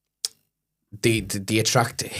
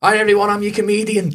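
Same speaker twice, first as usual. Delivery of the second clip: high, sheepish voice through a laugh; awkward self-intro; 11 semitones higher, 5 dB louder than usual. Retold or imitated. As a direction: play it timid and laughing, pitched up.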